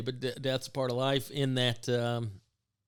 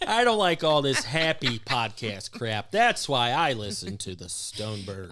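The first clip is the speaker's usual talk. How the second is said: mock grumpy listener; 4 dB louder than usual. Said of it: "she said she don't wanna hear".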